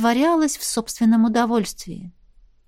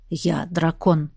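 серьёзно; 6 semitones lower, 3 dB quieter, slower than usual. A narrator's reading. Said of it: "сказал он серьёзно".

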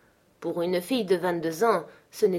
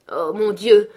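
anguished exclamation; 2 semitones higher, 10 dB louder, slower than usual. A narrator's reading. Troubled girl finally confiding in her nurse, exclaiming. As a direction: burst out louder, in narrated distress. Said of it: "s'écria-t-elle enfin".

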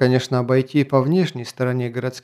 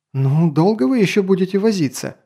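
raised, irritated question; impatient scolding; 6 semitones higher than usual. Acted. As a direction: scold them for dawdling. Lady scolding the observer.

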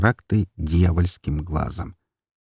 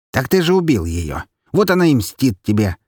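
mocking skeleton; 6 semitones higher, 3 dB louder than usual.

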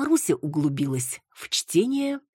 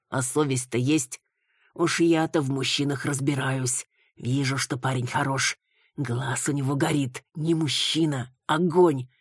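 put-on scolding older woman. Elderly neighbour scolding Marusya about dating sites, tutting. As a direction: lecture her gently on her conscience.

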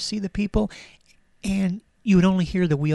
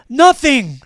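loud, higher melodramatic cry; anguished mock outcry; 8 semitones higher, 10 dB louder than usual. Mock-tragic outcry while reading diary.

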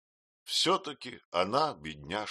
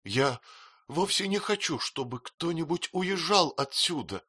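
mild tearful; 8 semitones higher than usual. A narrator's reading. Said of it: "глотая слёзы".

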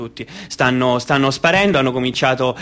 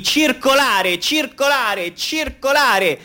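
rising higher with each repeat, commanding; barked government order; 11 semitones higher, slower than usual. Retold or imitated. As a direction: hammer the order like an official. Government's order to move along. (ordine perentorio del governo, sempre più acuto)

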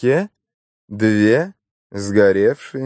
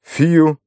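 higher, puffed-out "phew"; exhaled whew; 7 semitones higher, 4 dB louder than usual. A narrator's reading. Inspector after a tussle with Mary, exhaled whew. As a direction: let out a whew on an outgoing breath. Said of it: "выдохнул он".

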